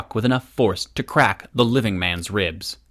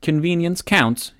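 musing; 8 semitones higher than usual. Acted. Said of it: "he mused".

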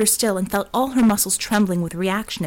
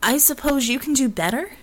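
harsh and grating; 5 semitones higher than usual. A narrator's reading. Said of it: "the words coming out harsh and grating".

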